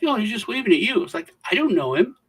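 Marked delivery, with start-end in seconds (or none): 0.0-1.0 mock girlfriend reply. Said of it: "And she's like". 1.5-2.2 climbs higher and louder to a near shout; mock freak-out over a stranger waving; rising panicked protest. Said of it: "And she's like".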